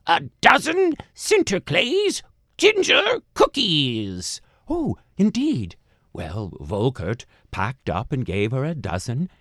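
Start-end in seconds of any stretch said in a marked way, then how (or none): 0.0-4.4 put-on high, slow old woman demanding; man doing granny voice. A narrator's reading. 4.7-5.8 man doing granny voice. A narrator's reading. Old woman scoffs.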